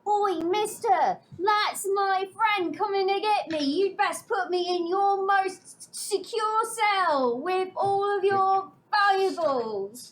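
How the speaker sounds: bad Cockney accent. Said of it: "You're really bad at this".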